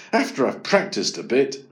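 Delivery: plain reading voice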